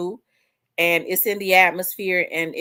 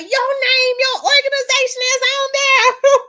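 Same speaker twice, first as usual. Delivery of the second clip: much higher, louder, laughing through tears; overjoyed friend; 8 dB louder than usual. Retold or imitated. Friend repeating the good news, laughing and tearful. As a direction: say it half laughing, half crying.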